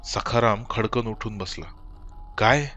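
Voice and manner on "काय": startled. Acted. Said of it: "तो जवळजवळ ओरडलाच होता".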